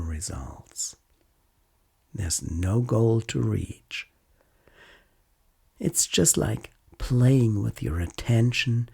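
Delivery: calm, unhurried mindfulness guide with long pauses; guided meditation. Acted. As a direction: gently lead a listener through noticing body and senses.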